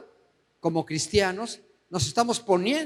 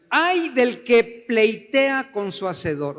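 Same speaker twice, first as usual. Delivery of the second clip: slow, raised exclamation; exclamatory; 4 semitones higher, 4 dB louder, slower than usual. Shown as a demonstration. Preacher reading Isaiah's warning to the congregation, exclamatory. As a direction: read it out as a drawn-out, emphatic warning cry. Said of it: "Con signos de admiración".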